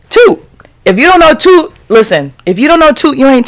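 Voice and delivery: high, punchy name drop; excited hype. Real, not acted. Vlogger hyping her favourite podcaster's wife, excited high name drop. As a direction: sell her name like she's a star.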